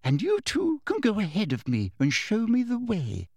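high, swooping officious voice; Umbridge commanding. A narrator's reading. Umbridge directing Harry and Hermione, high officious command. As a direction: order them on with authority.

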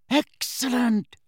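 high, drawn-out delighted cheer; pleased, slow exclamation; happy. A narrator's reading. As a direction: savour it gleefully, pitched right up. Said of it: "said Fred happily".

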